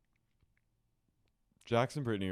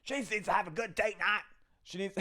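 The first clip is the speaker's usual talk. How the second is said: mock pleading; 11 semitones higher than usual. Pleading mock whine for Brittany.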